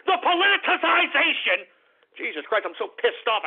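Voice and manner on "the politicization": stumbling over politicization, breaking it off as politici- and politi- again and again; tongue-tied stumble. Real, not acted. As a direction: trip over politicization in real frustration, then finally force the whole word out with a laugh. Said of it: "I'm stumbling, mumbling like a freaking jerk".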